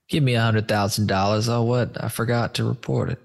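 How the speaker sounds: light New York accent, mock wiseguy; a hint of a New York hustler; a playful New York accent. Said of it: "I don't know why I'm doing a New York accent".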